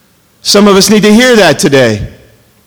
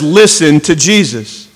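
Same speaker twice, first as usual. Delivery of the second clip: "listen" slow and weighted, then "to Jesus"; stress on LISTEN; 4 semitones lower, slower than usual. Shown as a demonstration. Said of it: "let's put the emphasis there".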